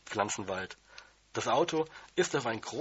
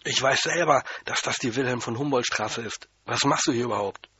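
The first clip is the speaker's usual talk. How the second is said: angry janitor; 5 dB louder than usual. Acted. Janitor angrily scolding the intruding boy. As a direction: tell the kid off in a temper. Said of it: "Dann ist er erst richtig böse geworden".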